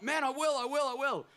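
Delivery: high, loud, insistent retold vow; emphatic promise. Storyteller swears to Ruben he will write, loud and eager. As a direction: pile up the assurance, pitched right up.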